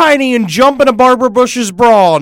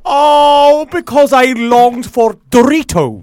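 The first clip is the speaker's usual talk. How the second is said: dark lord; 5 semitones higher, 4 dB louder, slower than usual. Acted. Rael voice continues.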